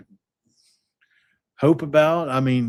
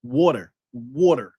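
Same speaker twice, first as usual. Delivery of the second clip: lightly imitated New Jersey accent on water; understated New Jersey water. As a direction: repeat water with a mild New Jersey flavor. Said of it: "you know, like that".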